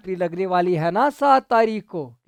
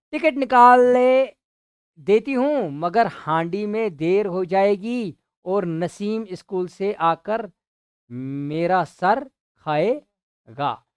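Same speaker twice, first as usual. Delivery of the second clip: complaining wife; 3 semitones higher, 6 dB louder, slower than usual. Acted. Wife grumbling to Munshi ji that the pot will be late. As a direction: drag it out like a put-upon housewife.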